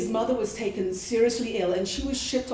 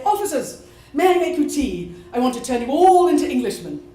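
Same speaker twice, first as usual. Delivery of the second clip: louder, bright offer of tea; calling out cheerfully; 6 dB louder than usual. Retold or imitated. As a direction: call across the compound to the guards. Calling out to officers.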